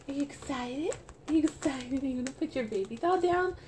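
put-on baby talk. Talking to her reborn doll.

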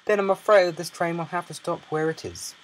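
loud, firm official voice; stern guard. Acted. Guard warning stubborn passenger train will stop, stern. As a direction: warn him sternly. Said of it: "said the guard sternly".

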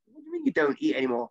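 high, hushed gasp of shock; shocked disbelief. Retold or imitated. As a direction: hear it and can't believe it. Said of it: "I was like".

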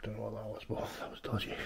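hushed whisper after an odd noise. Real, not acted. Whispering to the viewers after hearing a noise. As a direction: drop to a nervous whisper. Strange noise in abandoned house.

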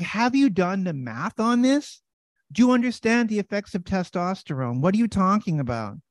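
high, loud disbelief; retelling a heated retort; incredulous retort. Retold or imitated. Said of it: "And I was like".

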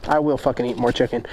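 low-pitched mock Russian accent. Reader answering a fan's letter, mock Russian accent. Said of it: "say that in a Russian accent".

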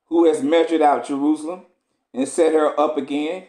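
measured, solemn scripture reading. Acted. Preacher reading Esdras to the congregation, solemn. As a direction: read the old text with gravity.

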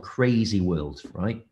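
normal talking voice

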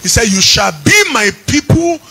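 singing preacher's chant over music; fervent preaching. Acted. Pastor stirs the congregation with a sung preaching chant. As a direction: preach it out, lifting each phrase.

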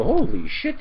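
a high, loud mock yelp of pain. Ranter voices the frog jumping from boiling water, high and loud. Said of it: "it's gonna go".

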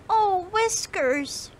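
high, slow squeaky mouse cry. Acted. Molly the mouse cries out to her whiskers as she strains. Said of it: "she cried".

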